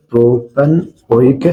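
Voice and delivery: प्रोपनोइक drawn out slowly; sounded out. Shown as a demonstration. Teacher spelling out an acid's name for students, sounded out. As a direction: stretch प्रोपनोइक part by part.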